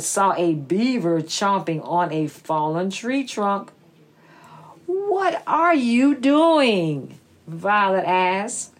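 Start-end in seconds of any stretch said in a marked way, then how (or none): 4.9-7.2 little snake voice. Acted. Snake asks beaver.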